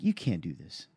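calm. Retold or imitated. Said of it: "That's just very calmly".

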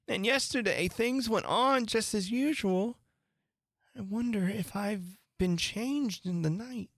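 put-on girlish wondering aloud; a little girl baffled by herself; lightly voiced musing Alice; puzzled young Alice.

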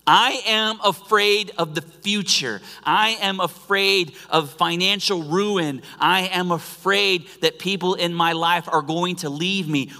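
name your fears boldly, voice lifted; a preacher calling out fears; calling out fear aloud. Shown as a demonstration. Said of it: "call out our fear".

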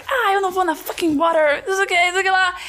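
hammed-up movie-character complaint; Tarantino movie intonation. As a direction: put on dramatic movie-dialogue intonation. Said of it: "falando com entonação de filme".

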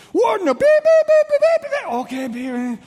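mock furious swearing, settling into a question; cursing cop. Officer ranting at the pastor then questioning him, hammed-up anger. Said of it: "walking at me swearing".

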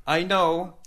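high-pitched imitated insistence; insistent heckler. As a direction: mimic a drunk insisting he knows someone. Heckler insists he knows the comedian.

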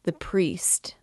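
feeble whisper. A narrator's reading. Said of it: "said she in a feeble voice".

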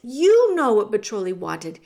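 plain reading voice

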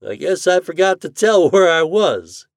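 chuckling through the words; light chuckle while speaking. A narrator's reading. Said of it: "The doctor chuckled".

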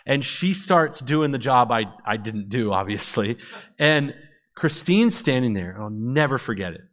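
ordinary talk, nothing marked

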